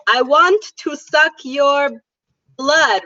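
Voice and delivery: mock vampire accent, want said as vant; vampire accent, W turned to V, slow and hammed. Shown as a demonstration. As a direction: ham up a movie vampire. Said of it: "So if I was a vampire, I would say".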